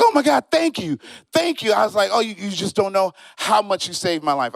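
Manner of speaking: high, gushing thank you; comic thanking the man who found his joke book, high and gushing; overjoyed gratitude. Retold or imitated. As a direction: gush with relief.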